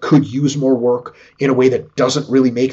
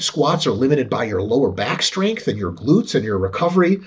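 ordinary talk, nothing marked

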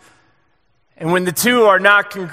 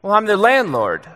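sheepish landlord; 4 semitones higher than usual. Retold or imitated. A lightly voiced landlord admitting the truth to the pastor. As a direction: deliver the punchline as an awkward confession. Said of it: "And he goes".

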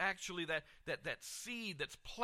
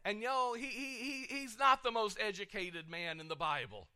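choked up; 5 semitones higher than usual. Real, not acted. Pastor moved while recalling mentor.

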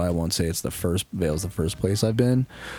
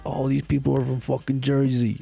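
higher-pitched mock onlooker voice; imitating TV viewers; 7 semitones higher than usual. Mimicking viewers judging the show's cast, higher mocking voice. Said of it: "everyone's gonna look and be like".

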